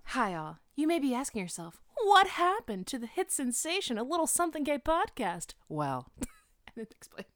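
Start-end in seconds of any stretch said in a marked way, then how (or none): 0.1-5.5 announcer voice. Shown as a demonstration. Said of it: "No, you should say".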